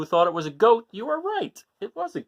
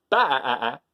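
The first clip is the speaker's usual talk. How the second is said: imitating a sheep's baa; 4 dB louder than usual. Shown as a demonstration. Showing kids the sheep sound, mock baa. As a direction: give a quick sheep's baa. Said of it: "that would be a sheep".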